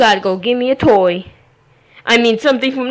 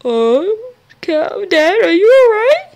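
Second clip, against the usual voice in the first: calling out; 8 semitones higher, 3 dB louder, slower than usual. Real, not acted. Calls out to check on dad.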